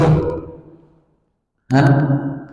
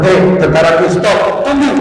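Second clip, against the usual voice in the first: commanding Sulaiman. Acted. Sulaiman to his marching army as ants cross, commanding. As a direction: call out a sudden order to troops. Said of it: "Apa Sulaiman?".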